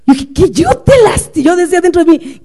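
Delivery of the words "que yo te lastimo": réplica aguda de madre ofendida; indignación. Retold or imitated. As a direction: protesta indignada, con tono alto. Réplica interior indignada al hijo. (indignación actuada, aguda)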